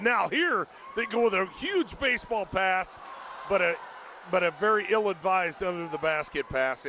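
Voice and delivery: quick, rising sports call with shouts; play-by-play. Real, not acted. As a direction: call the game live as it happens.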